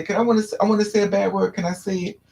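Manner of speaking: a hint of a whiny child begging; little kid voice. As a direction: ask like an eager little kid. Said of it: "little kids that they say".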